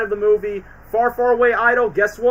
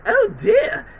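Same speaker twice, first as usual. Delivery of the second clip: much higher prim squeak; imagined last words. Retold or imitated. Imagining the godmother's last words, high and prim. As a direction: sigh it like a fussy old lady. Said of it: "her final words would be like".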